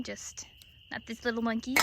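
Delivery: hushed breathy whisper, voice almost gone. Real, not acted. Farmer sneaking past the feeder at night, whispering. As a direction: whisper so the flock stays calm.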